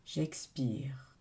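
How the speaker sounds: low, whispery release on the out-breath; meditative exhale cue, dropped and hushed. Real, not acted. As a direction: let the voice sink away like an exhale.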